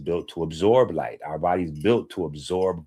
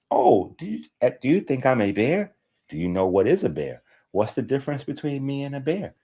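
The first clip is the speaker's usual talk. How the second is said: put-on higher playful baby-talk questions; 6 semitones higher than usual. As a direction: tease the toddler in a sing-song voice. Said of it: "So you start like that".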